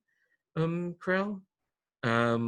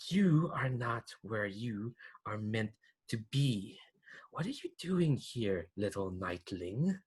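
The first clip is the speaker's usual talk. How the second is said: silky threatening voice; 6 dB quieter, slower than usual. Acted. Noble taunting the would-be knight, slow silky menace. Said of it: "silky, threatening voice".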